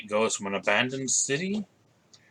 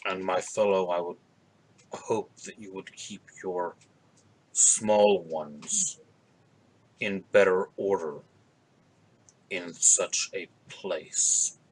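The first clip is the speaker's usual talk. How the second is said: low gravel growl; slow, deep and gravelly; 2 semitones lower, slower than usual. Acted. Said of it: "a kind of a deep, gravelly voice".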